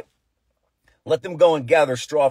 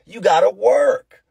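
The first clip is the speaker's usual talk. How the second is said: angry order; 8 semitones higher, 5 dB louder, slower than usual. Retold or imitated. Pharaoh ranting at the Hebrews.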